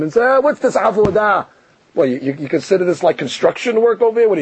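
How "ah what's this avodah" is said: sarcastic jab. Retold or imitated. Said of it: "little sharp word of sarcasm".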